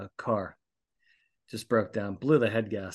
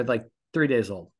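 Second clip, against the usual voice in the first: ordinary talk, nothing marked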